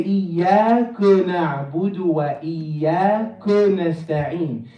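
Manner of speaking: "إياك" ending in a rounded, dull "ko"; muddied final vowel. Shown as a demonstration. Teacher showing students what to avoid, "إياك" ending rounded. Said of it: "We don't wanna say".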